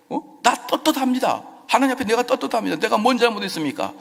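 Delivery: high, fast indignant protest. Acted. David protesting his innocence to God, high and fast. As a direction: defend yourself hotly. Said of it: "항변하고 있는".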